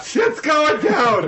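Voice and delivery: very high, slow robot impression. Co-host copying the robot's alert, high robot voice. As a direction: echo it in a high, drawn-out robot voice. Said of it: "That's a great robot voice".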